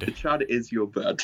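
lightly put-on British accent on "The Chud is your bud". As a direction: say it like a mock British host, half-joking. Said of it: "That sounds weird in a British accent".

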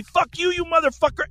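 retold scream. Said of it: "he's screaming at me".

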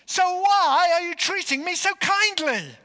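very high, full-voiced anguished cry; anguished shout. Bomber demanding why his victims are kind, anguished shout. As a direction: shout it out in bewildered desperation. Bomber cries out at undeserved kindness.

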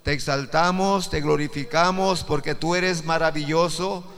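praying aloud to Jesus; prayer. Acted. Preacher closes the sermon praying to Jesus, in earnest worship. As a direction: lift the words up in worship.

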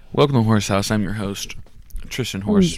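podcast host intro. Shown as a demonstration. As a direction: open the show like a radio host.

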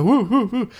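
imitated talk-show audience whooping; Arsenio Hall whoop. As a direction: mimic a short run of whoops. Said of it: "the Arsenio Hall thing".

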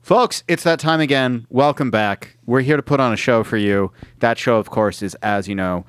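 showman welcome to the audience; host intro. Acted. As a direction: open the show like an emcee. Host opening the show.

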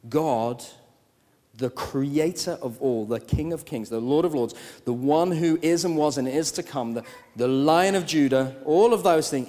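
grows from firm to a loud high peak; rising preacher's crescendo; building proclamation. Real, not acted. Building list of God's titles.

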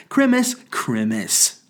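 slow, drawn-out mock Christmas. Shown as a demonstration. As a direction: stretch Christmas out slowly, sneering. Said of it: "only irritating people say Christmas".

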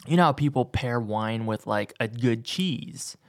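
talking just after a sip; speaking between sips of hot tea; while sipping a drink. Real, not acted. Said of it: "excuse me as I sip my tea".

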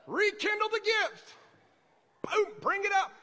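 preacher's rising fire; fired-up exhortation. Real, not acted. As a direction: stir the room up. Preacher firing up the congregation.

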